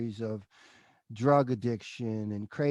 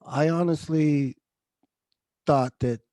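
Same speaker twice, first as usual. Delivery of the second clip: fighting tears; 5 dB louder than usual. Real, not acted. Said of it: "I don't wanna get emotional".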